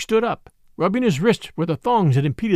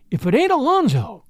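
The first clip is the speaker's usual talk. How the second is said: higher, startled exclamation of recognition; surprised cry; 7 semitones higher than usual. A narrator's reading. Lucy recognizing the starved man on the sled, startled high cry. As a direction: recognize the face with a shocked cry. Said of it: "she cried".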